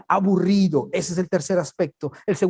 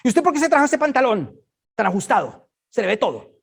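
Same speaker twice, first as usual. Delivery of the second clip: put-on nagging old church lady; 6 semitones higher than usual. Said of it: "Las viejitas con las mamás".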